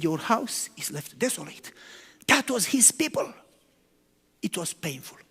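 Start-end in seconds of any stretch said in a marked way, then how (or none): 0.0-1.7 softer, lower, sorrowful; quiet and sad. Retold or imitated. Preacher voicing Jesus leaving Jerusalem, quiet and sad. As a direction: say it gently with grief. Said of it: "Jesus was quiet and sad".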